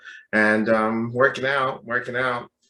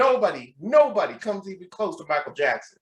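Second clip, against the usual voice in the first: higher, emphatic imitated Southern fan; Southern accent; 5 semitones higher than usual. Gym stranger praises his idol, Southern accent. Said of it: "with Southern accent".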